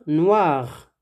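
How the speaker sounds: "noir." ending on the R, no E after it; silent feminine E. Shown as a demonstration. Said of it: "on ne prononce pas le E".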